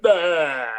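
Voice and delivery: loud, brief "ah" noise; imitated pained cry. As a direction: mimic the cry on impact. Imitates noise of hitting head.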